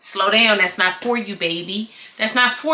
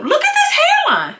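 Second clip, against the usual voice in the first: laughing; 3 dB louder than usual. Real, not acted. Laughing at wig reveal.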